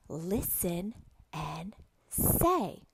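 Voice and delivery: very slow, drawn-out words; slow, deliberate classroom prompt; slow teacher modelling. Shown as a demonstration. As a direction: stretch each word for a young learner. Teacher models phrase for young student.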